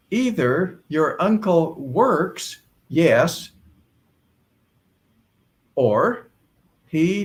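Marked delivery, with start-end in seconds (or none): none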